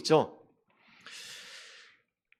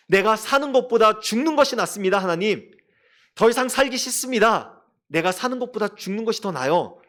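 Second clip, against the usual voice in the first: angry complaint; 4 semitones higher than usual. Retold or imitated. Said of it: "화를 내면서".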